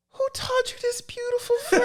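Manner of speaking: squeaky high voice breaking into laughter; high laughing disbelief; laughing high squeak. Retold or imitated. Bird voice, laughing retell.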